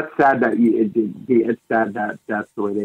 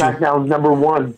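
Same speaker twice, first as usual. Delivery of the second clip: higher-pitched mimicked slogan; mimicked catchphrase; 5 semitones higher than usual. Co-host chimes in with the wrestler's slogan, mimicked catchphrase. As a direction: toss in the catchphrase as an impression.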